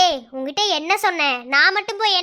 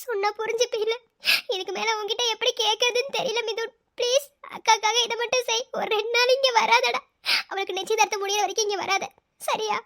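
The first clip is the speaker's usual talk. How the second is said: softer, higher begging voice; pleading softly; 3 semitones higher, 4 dB quieter than usual. Acted. Older sister softly begging brother to stay away, pleading. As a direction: beg him quietly to stay away. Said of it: "உன்னை கெஞ்சி கேக்குறேன்".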